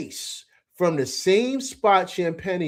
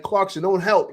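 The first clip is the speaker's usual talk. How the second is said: higher, urgent re-enacted warning; coach-style yelling; 5 semitones higher, 4 dB louder than usual. Fan coaching Clarkson through the TV, mild yell. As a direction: call out a correction to your player. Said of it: "I'm screaming as if I'm the coach".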